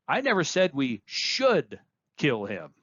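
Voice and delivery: weight on should; should leaned on and stretched; stress on should. Shown as a demonstration. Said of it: "by where you place emphasis".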